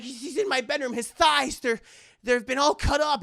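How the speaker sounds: stammered, urgent report; flustered Karen. Acted. Karen explains the thighs to detective, high flustered voice.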